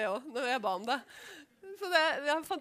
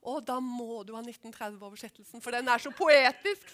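gushing, slowed and louder on poetisk; quoting the bookshop lady; 4 semitones lower, 6 dB louder than usual. Retold or imitated. Shop clerk recommending the poetic Bible, gushing. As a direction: mimic a delighted shop clerk. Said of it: "så sa hun".

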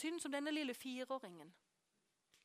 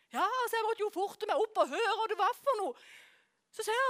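usual speaking voice

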